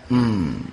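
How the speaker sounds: low, drawn-out hmm; pondering throat-clear; throat-clearing hum. Shown as a demonstration. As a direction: demonstrate a knowing low hum. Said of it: "kita bedehem dah".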